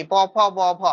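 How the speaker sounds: loud, separate প, ফ, ব, ভ; lip consonants. Shown as a demonstration. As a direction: sound out প, ফ, ব, ভ with the lips meeting. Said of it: "উচ্চারণ করলে সব ঠোঁটে ঠোঁটে". (ঠোঁটে ঠোঁটে প, ফ, ব, ভ উচ্চারণ)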